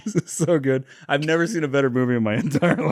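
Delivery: high, quick sarcastic gushing; sarcastic praise. Retold or imitated. Editor praising the bad cut, sarcastic gushing. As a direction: gush with mock pride. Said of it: "mocking the editor's praise".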